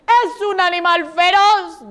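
mildly alarmed, slow announcement; frightened chick. Acted. Second chick reporting a fierce animal, mildly scared. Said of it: "quedó tieso del susto".

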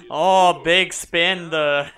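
loud, slow hammed-up merchant; mock merchant. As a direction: drag out big spender. Repeats merchant line loud, slow.

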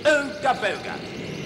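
drawn-out, ceremonial ooga booga; slow catchphrase. Acted. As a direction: say "Ooga booga" slowly like a solemn sign-off. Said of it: "as we always have to say".

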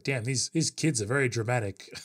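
quoting Kakashi through laughter; laughing. Retold or imitated. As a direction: giggle through the quote. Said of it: "Kakashi's like".

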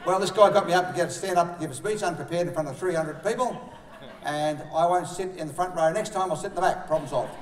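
loud, no-nonsense mate stating the fix; blunt matter-of-fact bloke. Retold or imitated. Man telling his mates the fix, loud and blunt. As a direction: lay out the problem and solution bluntly. Man retells problem, gives solution.

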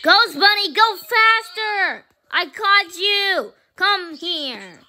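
playful villain chase. Pretend. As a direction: call out slow and high like a pretend villain. Playing clown villain chasing captives.

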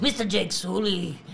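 Avatar movie quote. Acted. Callback to Avatar impression.

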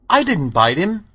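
high-pitched, lightly voiced cowardly lion; a touch of wounded denial; defensive lion. A narrator's reading. Lion defends himself to Dorothy.

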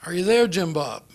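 lightly put-on Texan accent. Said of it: "very sort of Texan voice".

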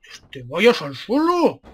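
"suelo" dragged out, word by word; exasperated slow order. Real, not acted. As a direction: spell out the order very slowly. Repeats ignored order, drawn out.

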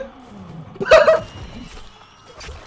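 airy, high disbelieving cackle; wheezy laugh of defeat; breathless high laugh. Real, not acted. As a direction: laugh it off after losing. Laugh after dying.

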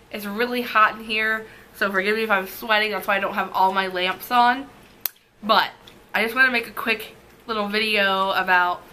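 numb mouth, slightly slurred; numb from the dentist. Real, not acted. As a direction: talk through a numb mouth. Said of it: "while my mouth is still numb".

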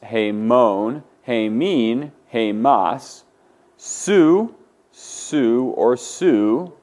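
slow, drawn-out paradigm chant; measured singsong drill, form by form; group recitation drill. Shown as a demonstration. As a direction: lead the class through the forms, stretching each one. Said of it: "Now we'll say it".

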